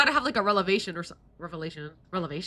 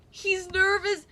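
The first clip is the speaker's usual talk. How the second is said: higher, sing-song tease on nervous; playful higher mock teasing; 9 semitones higher, 3 dB louder, slower than usual. Real, not acted. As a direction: tease the word nervous, pitched up. Repeats line, higher teasing take.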